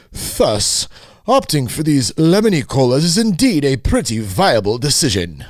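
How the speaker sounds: a hint of a pompous reader; intellectual voice. Shown as a demonstration. Reading an article aloud, lightly pompous intellectual voice. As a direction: read it like a snooty professor, pinky up. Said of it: "in my intellectual voice".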